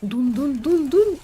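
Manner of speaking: rising mock dramatic dun-dun-dun; punchy voiced drum hits; dun-dun sting. Vocal sound effects while waiting.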